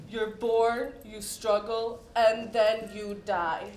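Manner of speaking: low, level delivery of a grim pronouncement; lightly voiced brooding poet, pitch dropped and held even; imitating gloomy poet. Poet greeting a stranger out of the blue, mock-solemn. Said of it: "The first thing he said to me right out of the blue was".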